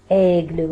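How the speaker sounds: "Aigle" with the vowel pushed outward, open. Shown as a demonstration. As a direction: stretch the open è at the start of "Aigle". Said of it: "وكأنه الإي هذيك خرج فيها برا للخارج".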